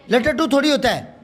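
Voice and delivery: लटटू as three beats, "la-ta-too"; mispronounced लट्टू. Shown as a demonstration. Teacher rejecting the error, लटटू as "la-ta-too". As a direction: voice a vowel after each t in लटटू. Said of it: "बीच वाले पे जोर ही नहीं पड़ता".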